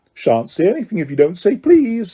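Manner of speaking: lilting, teasing singsong; annoying sing-song. Acted. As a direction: needle the caretaker in a singsong. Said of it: "in his annoying sing-song voice".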